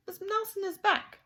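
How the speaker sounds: high, loud retort; emphatic storybook rebuff; insistent principal. A narrator's reading. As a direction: insist on it to the caller. Principal rebuffs caller on phone.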